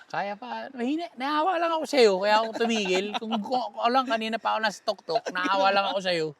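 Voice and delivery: high, loud, blustering excuse; hammed-up indignant bragging; loud mock protest. Mock excuse for stopping the climb.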